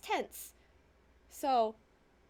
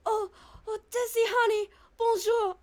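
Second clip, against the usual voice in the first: high, loud lovesick greeting; gushing sweetheart; 7 semitones higher, 5 dB louder than usual. Acted. Ron greeting his honey, high gushing voice. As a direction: coo it high and loud, hammed up.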